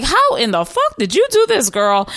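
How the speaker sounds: amazed the counter was fixed overnight. Retold or imitated. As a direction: marvel at what she pulled off. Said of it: "I was like".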